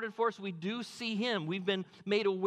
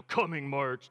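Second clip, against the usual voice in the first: movie trailer voice; 4 semitones lower, 4 dB louder, slower than usual. Retold or imitated. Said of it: "the guy that does the movie trailers".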